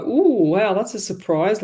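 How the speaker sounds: acted "ooh, wow" astonishment, lightly played; eye-popping surprise. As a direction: react as if your eyes are popping, mildly. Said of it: "like, your eyes popping?".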